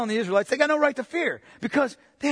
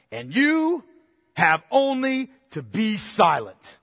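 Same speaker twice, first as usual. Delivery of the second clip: commanding Moses; slower than usual. Acted. Moses steadying the terrified people, firm and slow. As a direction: plant each word like an order. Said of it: "Moses says to the people, this is awesome".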